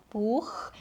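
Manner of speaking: Buch with a rough ch in the back of the throat; ach sound. Shown as a demonstration. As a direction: say Buch with the ch scraped at the back of the mouth. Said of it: "it's h".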